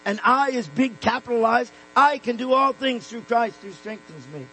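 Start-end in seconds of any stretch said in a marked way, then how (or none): 1.9-4.5 "I" set apart and emphasized, the rest running on; stress on I. Shown as a demonstration. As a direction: lean on the opening "I". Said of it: "Sometimes the emphasis is on I".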